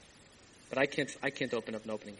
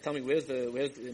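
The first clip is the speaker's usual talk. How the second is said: hesitant, deflated asking; less enthusiastic. Acted. Newcomer asks a second group for the rabbi, unenthusiastic. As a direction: ask half-heartedly, trailing into hesitation. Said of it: "now he's not so enthusiastic".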